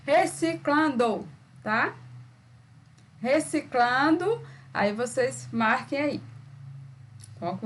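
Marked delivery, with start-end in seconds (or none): 0.0-1.3 reciclando said slowly in separate syllables, CLAN standing out; slow teacher's demo of reciclando; pronounced to show stress. Shown as a demonstration. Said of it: "Pronuncie aí quantas vezes necessário". 3.2-4.4 reciclando stretched out slowly, higher, ending on a rise; slow, raised demo of reciclando; repeated to show stress. Shown as a demonstration. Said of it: "Pronuncie aí quantas vezes necessário".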